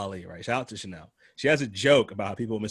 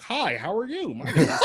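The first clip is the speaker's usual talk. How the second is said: mock polite; 7 semitones higher than usual. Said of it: "It's like".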